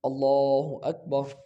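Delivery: اللہ اکبر drawn out slowly and calmly; a slow, still, model takbir; slow demo. Shown as a demonstration. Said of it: "تو آپ اس طرح".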